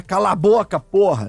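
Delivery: demonstrated stern "shut up"; humorless telling-off. Shown as a demonstration. Streamer showing the wrong way to say it, stern. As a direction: say it as a real order, no joke in it. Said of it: "tem que falar dentro do humor ali, não é".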